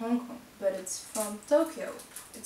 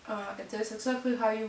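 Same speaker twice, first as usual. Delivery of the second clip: speaking around a sip; talking with glass at mouth; drinking while talking. Real, not acted. Seen 2: Glass at lips during words; chewing not clearly visible in frames.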